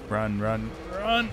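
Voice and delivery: urgent rising run run run; yelping to himself to flee; being chased. Real, not acted. Fleeing the monster.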